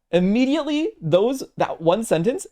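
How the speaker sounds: 1 imitating Soju. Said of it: "how he says stuff".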